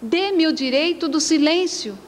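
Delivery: high-pitched, exasperated scolding; acted exasperation, pitch held up; irritated mother. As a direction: scold the child, pleading for silence. Irritated mother scolds her child.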